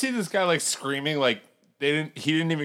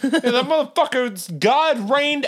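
laughing; 9 semitones higher, 4 dB louder than usual. Real, not acted. Laughing joke.

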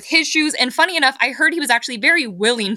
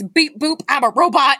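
put-on rough Jersey accent, pitched up; attempted Jersey accent; 3 semitones higher, 3 dB louder than usual. Quoting Mister Mears from year one, attempted Jersey accent. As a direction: try a Jersey accent and half manage it. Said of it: "I can't quite do the Jersey accent".

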